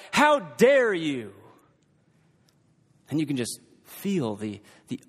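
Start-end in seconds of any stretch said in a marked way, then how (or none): 0.1-1.3 slow, hammed-up angry "How dare you?"; louder, slow mock outrage; angry yell. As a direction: bark it out slowly as an offended leader. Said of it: "someone in an angry voice yells out".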